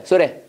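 "소레", so that with a tapped r sound; T turned to ㄹ. Shown as a demonstration. Teacher modelling "소레" for repetition, T as a tap. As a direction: link "소레" as two quick syllables. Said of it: "요거 리을로 바뀌는 거야".

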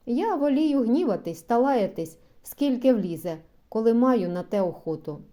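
гучно, гаряче, з викликом; кричить, що він запальний; запальний вигук. Acted. Журден вигукує про свою запальність. (запальний гучний вигук)

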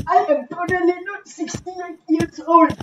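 voice changer. Acted. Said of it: "I'm totally not using a voice changer".

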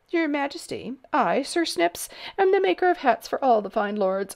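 lightly voiced self-important little man; pompous hatmaker. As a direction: announce himself grandly. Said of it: "bowed stiffly".

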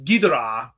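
Ghidra with the middle vowel nearly swallowed; half-reduced Ghidra; swallowed syllable. Shown as a demonstration. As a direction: shrink the "o" of Ghidorah to a quick uh. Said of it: "syllables and consonants sometimes get swallowed up".

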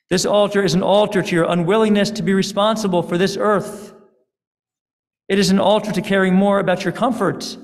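a hint of a weary, angry deity; angry God. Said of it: "God's voice was angry and weary".

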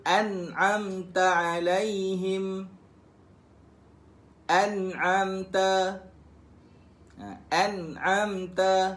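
slow, drawn an'amta with the ta clearly sounded; drilling an'amta. Shown as a demonstration. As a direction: model an'amta slowly for students. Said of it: "Sebut-sebut". (sebut an'amta perlahan dengan ta yang jelas)

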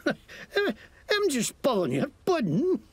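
lightly Scottish mocking thug; Scottish accent. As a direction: sneer at them in Scots. Scottish NPC laughs it off.

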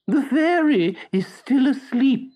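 high, very slow creature voice; slow snail. A narrator's reading. The snail answers Pinocchio from upstairs, very slow. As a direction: stretch every word lazily.

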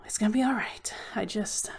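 choked-up whisper, voice nearly gone; emotional whisper. Real, not acted. Vlogger reassuring viewers while choked up, emotional whisper. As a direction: whisper it as the feeling catches you. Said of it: "I got a little emotional".

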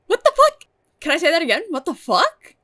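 very loud, high disbelief; incredulous outburst. Real, not acted. Fan reacting to Spike trying to kiss Buffy, incredulous shouting. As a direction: exclaim it high and loud, stunned.

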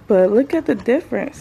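winded, catching her breath. Real, not acted. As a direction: talk while still puffing. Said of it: "Sorry if I'm so winded".

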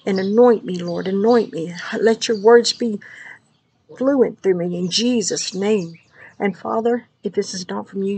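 intense deliverance prayer, rhythmic and driving; fervent prayer. Acted. A believer praying over listeners before sharing a dream, fervent prayer. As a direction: pray it out like binding the enemy.

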